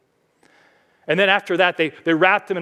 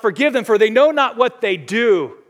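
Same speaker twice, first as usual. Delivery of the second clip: crying out; 6 semitones higher, 6 dB louder than usual. Retold or imitated. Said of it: "he yells out".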